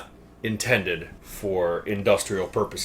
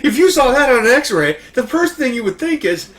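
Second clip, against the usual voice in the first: still laughing; 14 semitones higher, 9 dB louder than usual. Real, not acted. Laughing on after the punchline.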